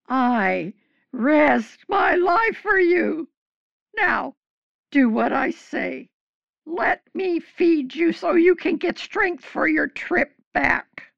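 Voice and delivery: urgent shouted order; forceful demand. Acted. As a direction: make him listen, firmly. Woman commands shattered king to eat.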